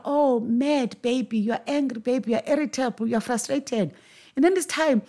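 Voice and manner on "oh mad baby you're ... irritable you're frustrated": put-on parent cooing feelings back to a baby; lightly voiced baby talk; mirroring parent. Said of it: "the parent holds a mirror".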